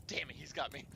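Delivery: a beaten, breathy aside under the breath; mock defeated whisper. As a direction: whisper it like you just lost the argument. Imagining losing the roast.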